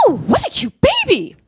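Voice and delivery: high, loud Northern Irish coo; Northern Irish accent. Retold or imitated. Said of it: "That was a Northern Irish accent".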